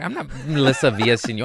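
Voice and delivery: fast, laughing through it. Real, not acted. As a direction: laugh it out quickly. Laughing at himself.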